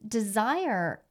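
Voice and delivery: ordinary talk, nothing marked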